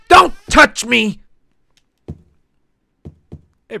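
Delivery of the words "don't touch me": Karen voice. Retold or imitated. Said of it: "Then they do a hair flip".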